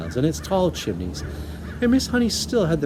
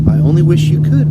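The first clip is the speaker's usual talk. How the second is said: regretful; 6 semitones higher, 12 dB louder than usual. A narrator's reading. Regretful teacher.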